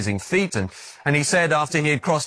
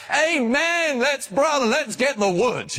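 mock eager amen; 10 semitones higher than usual. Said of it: "jumping up and down and saying".

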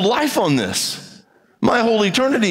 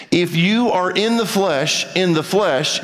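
slow, deliberate and spaced out; said slowly; slower than usual. Shown as a demonstration. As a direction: lay each word down slowly for the congregation. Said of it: "So let me say this slowly".

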